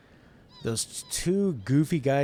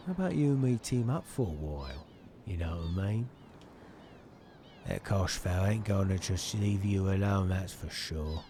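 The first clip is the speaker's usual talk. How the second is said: lightly voiced mate; 3 semitones lower than usual. Voices game dialogue.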